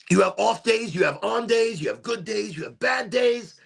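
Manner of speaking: emphatic. Real, not acted. Coach summing up the game to viewers, near shouting. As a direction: hammer each day type home.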